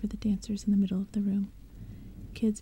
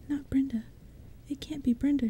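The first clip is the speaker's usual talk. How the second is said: mild cry; 4 semitones higher than usual. Acted. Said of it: "she cried".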